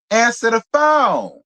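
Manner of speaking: exasperated shout. Acted. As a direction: shout it at an absent partner, fed up. Scolding couples who ignore calls.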